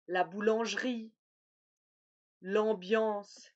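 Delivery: boulangerie and ambiance with nasal an; nasal an demo. Shown as a demonstration. Teacher modelling words with nasal an. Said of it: "A M et A N".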